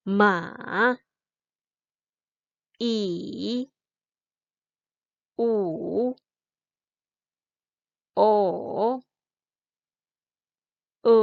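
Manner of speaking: each of "ma, i, u, o, e" drawn out with a dip and rise; slow wavering glide on "ma, i, u, o, e", one by one; third tone. Shown as a demonstration. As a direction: bend each of "ma, i, u, o, e" down and back up. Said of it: "Naik turun gitu ya".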